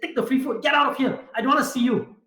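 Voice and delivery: high-pitched mock exasperation; angry outburst. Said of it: "He got so angry and he said".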